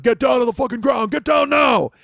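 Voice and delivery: loud booming cop command; deep Charlton Heston voice. Retold or imitated. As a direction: bellow like a movie hero cop. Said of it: "the deepest voice ever... Charlton Heston".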